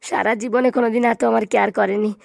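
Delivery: hammed-up weepy plea to her; a touch of fake tears; mock crying. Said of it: "তুমি কান্না করো না".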